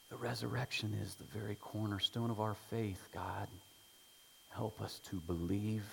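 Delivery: low, soft, measured prayer voice. Real, not acted. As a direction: pray gently and reverently, letting phrases fall. Leads the congregation in prayer.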